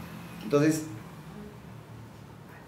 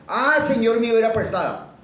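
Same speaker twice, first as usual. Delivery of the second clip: higher, louder cry of alarm; mock cry of dismay; 8 semitones higher, 6 dB louder than usual. Teacher voices the woodcutter crying over the axe, mock loud cry. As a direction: wail it like a man who lost a borrowed axe.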